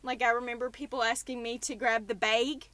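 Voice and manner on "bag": "bag" with a long vowel, like "bayg"; imitated long vowel. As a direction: imitate Canadian-sounding "bag", rhyming with vague. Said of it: "you do longer vowels".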